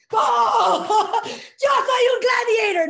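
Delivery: high, loud, laughing battle cry; shouting the chant at the seminar; laughing gladiator shout. Retold or imitated. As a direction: yell it out with a laugh, fully committed. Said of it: "Y gritas".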